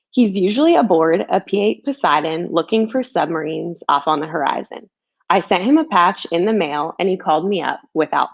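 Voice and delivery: put-on gentle rhyming storybook read, like to a child; reading a picture book. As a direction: read it like a bedtime story for kids. Author reads her picture book aloud.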